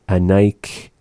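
Anaik ending on K, with no S; without the S. Shown as a demonstration. Teacher showing he wants, Anaik without the S ending. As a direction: close Anaik on the k, nothing after. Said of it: "they're not saying Anaiks".

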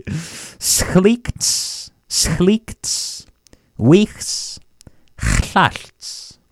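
Schlicht, schlicht, wichs, chlalt split apart with pauses; broken into syllables. Shown as a demonstration. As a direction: chop the phrase into separate pieces. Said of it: "For the last time".

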